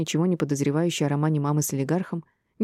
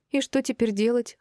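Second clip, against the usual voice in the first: gasping; 7 semitones higher than usual. A narrator's reading. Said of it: "ахнула Аселя".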